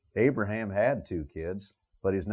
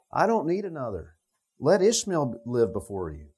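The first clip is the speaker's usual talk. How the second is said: a touch of pleading, a bit higher; 4 semitones higher than usual. Retold or imitated. Abraham begging God to spare his son, lightly pleading. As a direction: beg gently for the son. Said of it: "He's pleading for Ishmael".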